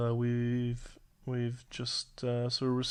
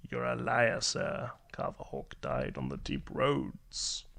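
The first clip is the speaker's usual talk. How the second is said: whispered accusation; 3 dB quieter than usual. Acted. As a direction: hiss the accusation quietly. Accusing the stranger.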